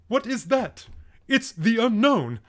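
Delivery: high, loud, drawn-out spooky mimicry of the actor; mock British villain. Streamer mimicking the Unknown actor's line, high mock British spooky voice. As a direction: ham up the cheap villain's line in a bad British voice. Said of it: "I sound exactly like this guy".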